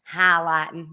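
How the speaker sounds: mama's Southern accent slipping out on "highlighting". Real, not acted. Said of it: "I hear my mama's accent come out".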